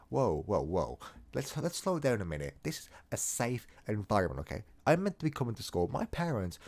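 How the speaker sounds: a hammed-up, indignant pupil's lecture, only lightly voiced; mock outrage rant. Storyteller joking about a scream at school, mock-indignant rant. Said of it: "I'm trying to make a joke right now".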